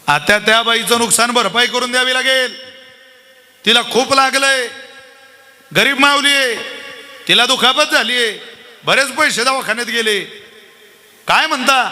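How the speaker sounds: pleading lawyer. Retold or imitated. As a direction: beg the judge for compensation.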